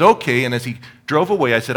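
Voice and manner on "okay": retold okay. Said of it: "And he says".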